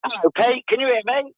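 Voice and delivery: down a well. Real, not acted. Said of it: "You, you sound like you're at the bottom of a well".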